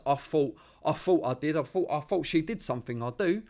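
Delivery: Estuary accent. Shown as a demonstration. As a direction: put on broad Essex, "fought" for "thought". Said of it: "instead of T Hs, it's Fs".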